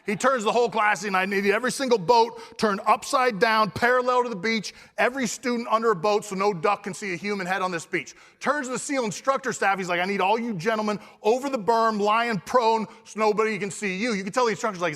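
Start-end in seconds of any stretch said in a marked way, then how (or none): 1.2-8.2 mock take-charge orders; vocal, focused leader. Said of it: "turns into the most vocal, capable, focused leader". 10.0-14.1 imitated commander directing his staff; lightly raised take-charge voice; vocal, focused leader. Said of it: "turns into the most vocal, capable, focused leader".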